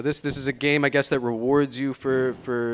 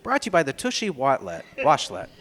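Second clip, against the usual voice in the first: ad read. Pretend. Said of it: "sponsor tag".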